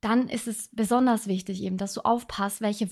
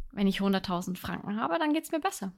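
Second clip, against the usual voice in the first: confident wish; 4 dB quieter, faster than usual. Shown as a demonstration. Podcaster showing listeners the right way to phrase a wish, upbeat and sure. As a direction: say it like a goal you already own. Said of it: "Sondern du sagst".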